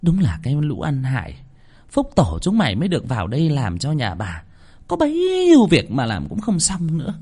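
contemptuous mistress, rising in pitch; scornful scolding. Acted. Mistress glaring at useless servants, scornful. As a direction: berate them, stretching the words in disdain. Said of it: "nguýt dài một cái".

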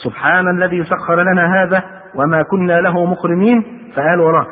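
slow, drawn-out supplication; acted group-prayer lead. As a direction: recite it slowly for others to repeat. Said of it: "يلا ورايا يا جماعة".

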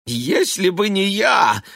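high, loud hurt protest; stung retort. A narrator's reading. Stung wife retorting to her husband. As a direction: fire back, wounded. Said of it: "начала уязвлённая Элиза".

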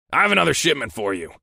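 short, curt boss voice. A narrator's reading. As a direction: clip it off impatiently. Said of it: "my boss said curtly".

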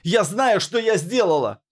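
high, strained cry of guilt; high hoarse cry; anguished cry. A narrator's reading. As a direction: force the confession out. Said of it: "голос оборвался болезненным хрипом".

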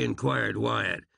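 plain reading voice

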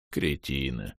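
the orc pities the fooled elves, low and soft; sad grumble. Acted. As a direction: grumble it sadly under the breath. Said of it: "проворчал с грустью Бом".

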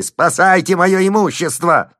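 high, loud desperate yell. A narrator's reading. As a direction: howl for his property. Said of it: "вопил он".

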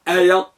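آية with the final "ya" kept short. Shown as a demonstration. Teacher showing the particle without ishba' of the ya, ending short. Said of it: "ولكن بدون إشباع الياء".

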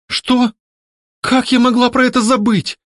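high, moaning dismay; lady moaning in high dismay. A narrator's reading. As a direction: groan it out in shock. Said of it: "простонала леди".

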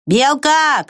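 high called name; calling out. A narrator's reading. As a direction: call across the fence. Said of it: "крикнул муравей".

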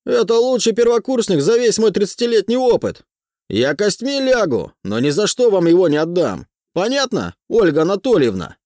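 high, loud heated protest; escalating comedy rant. A narrator's reading. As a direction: defend him with rising fervour. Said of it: "восклицает Усатый".

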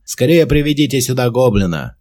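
loud, high urgent order; shouting an order. A narrator's reading. Commander ordering guards to bring the goblin, loud. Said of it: "крикнул он стражникам".

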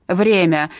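loud barked call of time; barked order. Acted. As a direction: bark it like a prison guard. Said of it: "гаркнула одна из надзирательниц".

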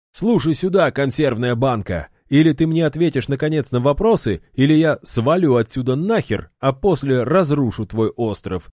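pressing a cold foe for answers; threatening hero. A narrator's reading. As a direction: push him, brash and fed up. Ildar threatens the guard.

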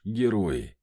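a dry smirk on the word; understated mocking echo. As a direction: say it with a wry little laugh. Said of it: "усмехнулся я".

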